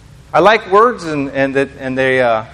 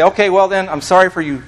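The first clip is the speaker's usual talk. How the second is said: teasing announcement; 3 semitones higher than usual. Retold or imitated. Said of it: "And then I'd say".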